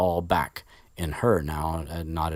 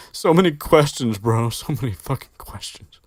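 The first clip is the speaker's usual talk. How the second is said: laughing disbelief; 8 semitones higher, 8 dB louder than usual. Real, not acted. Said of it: "laughing exasperation at the story".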